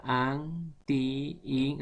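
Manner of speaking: "anti, in" slowly broken as an... tiii... in; very slow syllable demonstration of "anti, in"; separated syllables. Shown as a demonstration. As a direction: pause and stretch each piece of "anti, in". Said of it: "entonces se separan".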